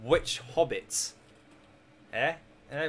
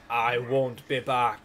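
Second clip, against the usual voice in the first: Terminator line; 2 semitones lower, much slower than usual. Retold or imitated. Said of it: "from Terminator".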